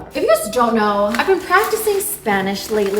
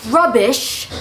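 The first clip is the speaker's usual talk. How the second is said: put-on UK accent. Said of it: "in my little U K accent".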